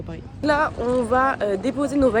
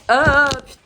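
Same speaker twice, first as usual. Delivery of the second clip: surprised curse; 5 semitones higher, 11 dB louder than usual. Real, not acted. Mishap with hair clips.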